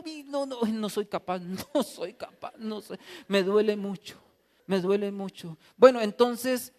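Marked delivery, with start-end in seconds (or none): 0.0-5.6 mock pained refusal. Stingy man refuses to pay.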